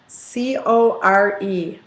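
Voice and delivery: letters spelled out one by one, slow; spelling it out slowly. Shown as a demonstration. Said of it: "you're gonna hear me saying".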